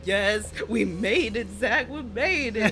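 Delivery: slow, drawn-out half-laughing cheer; savoring the win, laughing; "we made it" stretched out slowly; mock triumphant. Celebrating thousand downloads.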